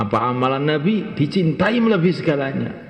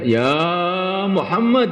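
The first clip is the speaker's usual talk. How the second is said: high-pitched calling out, imitated; retold cry; 6 semitones higher, slower than usual. Preacher retells a companion crying out for healing, as a raised call. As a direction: call out the beloved name, pitch leaping up. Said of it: "Maka beliau berteriak".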